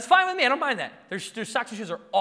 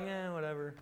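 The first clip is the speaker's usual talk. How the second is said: put-on dismissive kids; 9 dB quieter than usual. Kids shrug off calm requests.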